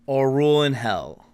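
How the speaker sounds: booming proclamation, lightly voiced; bellowing otherworldly voice. Game master voices the mysterious figure's offer, bellowing lightly. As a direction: intone it as a vast unearthly being. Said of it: "say in its deep bellowing voice".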